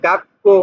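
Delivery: "গাক্কো" with a held double k; doubled "কো" consonant. Shown as a demonstration. Teacher explaining the small tsu, "গাক্কো" with doubled k. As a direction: stop on the k, then release "গাক্কো". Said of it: "কোটা দুইবার উচ্চারণ হবে".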